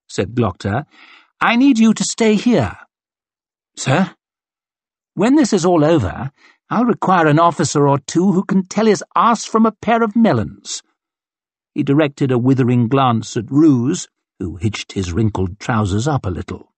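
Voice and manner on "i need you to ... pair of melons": brisk mocking colonel. Colonel hurrying his captain, brisk and scornful. Glocta orders West.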